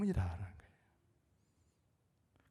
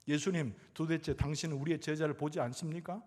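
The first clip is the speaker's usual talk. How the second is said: acting out a slightly raised complaint; lightly voiced reproachful questioning; mild mock resentment; 3 semitones higher than usual. Disciples to sleeping Jesus in the storm, mildly resentful. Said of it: "예수님을 막 원망해요".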